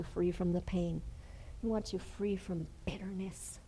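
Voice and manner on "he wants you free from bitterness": a soft hushed repeat; whisper. Acted. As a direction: hush the repeat.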